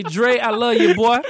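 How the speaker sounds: affectionate mock cousin voice; New Orleans cousins. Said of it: "that's exactly how they talk".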